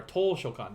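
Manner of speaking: toshokan with an over-long first syllable, "TOHH-shokan"; mispronounced toshokan. Shown as a demonstration. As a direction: stretch the "to" of toshokan too far. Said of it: "That's, that's incorrect".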